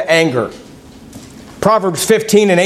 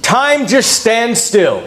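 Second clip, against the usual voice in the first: slow, higher-pitched sweet talk; drawn-out, mock-romantic endearment; adoring spouse; 4 semitones higher, slower than usual. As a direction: play a spouse paying a loving compliment. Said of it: "have your spouse say to you".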